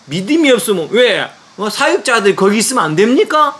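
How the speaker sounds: a father defending his son, voice up; retold shouting. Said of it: "고함을 막 치니까".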